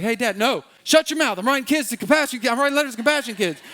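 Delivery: put-on high, loud, fast kid voice barking back; mock kid snapping at dad; bratty kid. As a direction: play the child cutting dad off, hammed up. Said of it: "your kids are gonna come up to you like".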